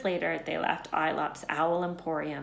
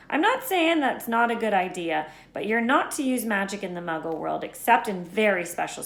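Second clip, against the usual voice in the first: Hagrid voice; 3 semitones higher, 5 dB louder than usual. Acted.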